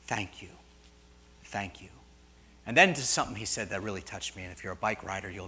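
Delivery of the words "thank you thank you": soft, low thank-you; gently retold gratitude, voice dropped low; quiet and tender, as the tears dry; hushed thanks. Jesus, tears dried, thanks him.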